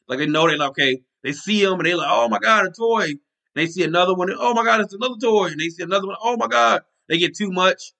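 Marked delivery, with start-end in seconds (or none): 2.1-3.1 put-on a spoiled kid thrilled by a present; mock kid delight. 4.4-5.5 higher, giddy mock squeal; mock kid delight. Kid opening presents. 6.2-6.8 high mock squeal of delight; mock excited gasp. Kid opening presents.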